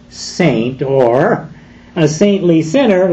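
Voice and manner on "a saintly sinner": "saintly" lifted higher, "sinner" falling; stress on saintly. Shown as a demonstration. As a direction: lean on "saintly", let "sinner" drop. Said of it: "to maybe get the emphasis better".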